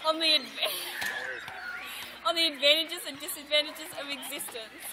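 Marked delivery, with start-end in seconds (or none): 0.1-2.3 real laugh cuts the word short; cracking up. Real, not acted. Student attempting the analysis, cracking up mid-word. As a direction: start the phrase, then dissolve into laughter.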